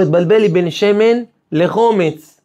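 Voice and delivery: high, slow, tearful plea; distressed daughter. Acted. The daughter tells her father about the mix-up, distressed. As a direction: voice the upset daughter pleading.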